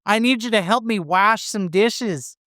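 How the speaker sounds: very high Boston mom call about dishes. Pretend. Cohost, mocking again, high Boston mom wants dish help. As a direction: yell up like a nagging Boston mom. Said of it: "You sound like a duck".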